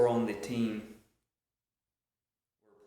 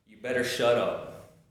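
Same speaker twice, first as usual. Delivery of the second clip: firm, louder warning without really screaming; mock scream, only moderately raised; retold scream; 5 dB louder than usual. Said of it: "screams at them".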